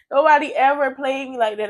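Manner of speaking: said through a laugh of disbelief. Real, not acted. Telling viewers how the girl played her, laughing. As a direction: laugh it out, can't believe it.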